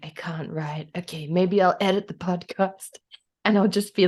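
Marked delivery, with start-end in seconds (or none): 0.0-3.0 lightly put-on grumpy writer. Podcaster imitating their own writer's block, mildly grumpy. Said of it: "I'll be so grumpy".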